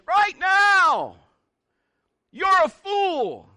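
high, indignant acted shout; loud, high mountain yell. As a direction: holler it across the valley. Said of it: "Somebody's yelling at me".

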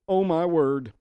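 amazed exclamation. Shown as a demonstration. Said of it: "You can even say it with attitude".

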